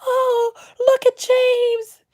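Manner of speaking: high, drawn-out syrupy gushing; mock gushing couple. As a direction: coo it in an exaggerated high, slow voice.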